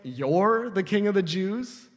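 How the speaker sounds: slow, mildly sarcastic question; lightly mock the prisoner's claim. Pilate sizing up Jesus, a touch of sarcasm. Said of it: "It's got some sass on it".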